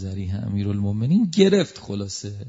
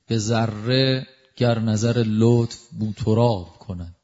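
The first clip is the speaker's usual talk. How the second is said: slow, measured verse recital; slow recitation of a verse; poem recitation; slower than usual. Acted. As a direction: recite the line slowly, savouring it.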